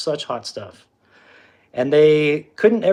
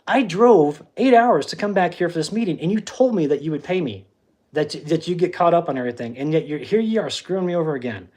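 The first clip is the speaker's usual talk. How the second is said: angry rant; 3 semitones higher than usual. Retold or imitated. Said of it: "I was so angry".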